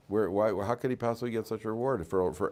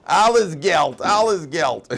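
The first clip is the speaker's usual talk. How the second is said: mock lament; 8 semitones higher, 11 dB louder, much slower than usual.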